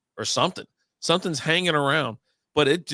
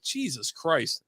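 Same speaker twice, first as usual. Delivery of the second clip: slow, softer retold exasperation; exasperated; 3 semitones higher, 6 dB quieter, much slower than usual. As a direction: draw it out in weary disbelief. Retold reaction to being infected.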